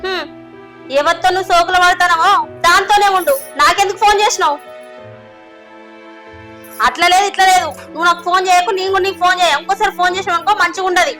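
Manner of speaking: sharp, firm telling-off down the phone; angry phone scolding. Acted. Wife snapping at her drunk husband on the phone, angry. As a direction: cut him off, you're done with him.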